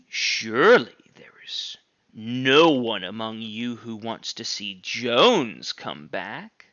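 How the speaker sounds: slow breathy plea in a whisper; pleading whisper. Acted. Squealer pleading with the animals, slow whisper. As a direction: beg them in a hush. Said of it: "almost pleadingly".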